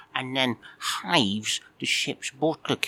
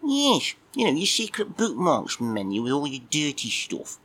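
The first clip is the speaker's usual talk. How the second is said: high, squeaky grumpy cat puppet just woken; a sleepy, put-out little puppet admiral; cheeky puppet cat; 4 semitones higher than usual. Acted. Puppet cat grumbling at Mike for waking him, squeaky.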